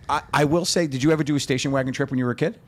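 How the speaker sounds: normal talking voice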